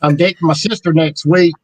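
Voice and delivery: joking mock Mississippi accent. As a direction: play a joke Mississippi local. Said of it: "a Mississippi accent".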